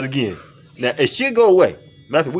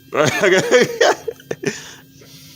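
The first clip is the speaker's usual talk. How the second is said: high, trailing laugh; real laughter; 9 semitones higher than usual. Real, not acted. After the ticklish foot demonstration, high laughter. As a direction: break into high-pitched laughter.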